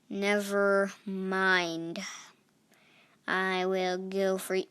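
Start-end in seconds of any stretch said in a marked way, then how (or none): 0.1-2.0 slow drawn-out. Real, not acted.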